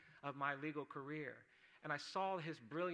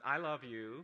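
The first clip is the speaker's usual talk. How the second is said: laughing confession; 9 dB louder, slower than usual. Retold or imitated. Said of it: "I said".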